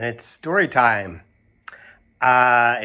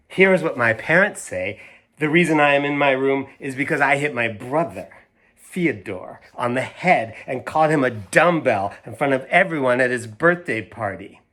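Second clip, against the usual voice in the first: put-on lively read-aloud to kids; reading to children; 2 semitones higher than usual. A narrator's reading. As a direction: read it like story time for young listeners. Reads picture book aloud.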